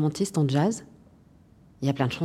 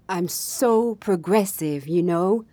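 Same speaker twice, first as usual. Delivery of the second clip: slow, raised mocking English; mock progressive posturing; 3 semitones higher, much slower than usual. Club owner parodying progressive posturing, mocking. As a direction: put on self-satisfied progressive airs, drawn out.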